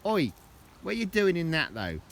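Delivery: high, loud mock scolding; calling out. Real, not acted. Owner scolding the muddy dog, loud and high. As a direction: tell the dog off, half amused.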